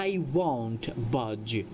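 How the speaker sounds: slow, deliberate sentence for learners; slow model reading. Shown as a demonstration. Teacher reads a story sentence to English learners, slowly. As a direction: draw each word out for students.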